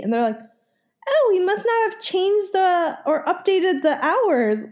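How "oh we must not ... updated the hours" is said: high, airy clerk voice, higher; a lightly mocked careless clerk; pharmacy clerk voice.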